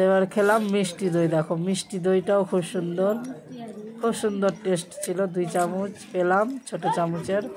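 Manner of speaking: talking while eating; licking spoon between words; mouth full of food. Real, not acted. Seen 2: Puts small spoon to mouth repeatedly, lips working between bites.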